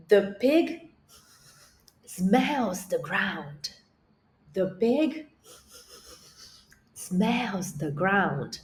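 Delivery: very slow English with each word spaced out; slow clear model. Shown as a demonstration. Teacher modeling English for a child, very slow and clear. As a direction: say it slowly so the child can copy. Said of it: "presta atenção, escuta, listen".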